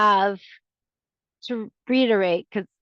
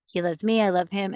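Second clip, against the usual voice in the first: calm self-reassurance; 3 semitones lower than usual. Shown as a demonstration. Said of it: "You stop it immediately and say".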